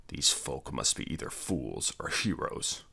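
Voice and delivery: low gruff grunt. Acted. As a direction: grunt it out like a warrior. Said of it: "grunted Conan".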